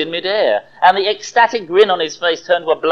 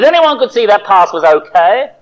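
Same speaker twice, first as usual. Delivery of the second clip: louder, heated protest; indignant insistence; 5 semitones higher, 5 dB louder than usual. Acted. Fan arguing with his friend, heated and loud. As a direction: insist the pass was fine. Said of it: "he demanded".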